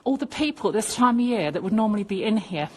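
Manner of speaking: real outrage spilling out, fast at first; outraged. Real, not acted. Outraged filming an empty ward.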